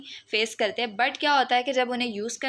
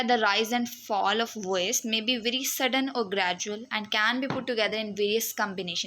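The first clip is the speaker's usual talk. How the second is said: slow dictation read; much slower than usual. Acted. Slow reading of textbook quote.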